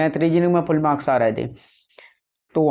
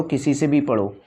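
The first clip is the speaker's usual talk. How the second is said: whispered aside. Shown as a demonstration. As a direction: drop to a whisper, as if sharing a secret. Advice repeated, second take whispered. (फुसफुसाकर)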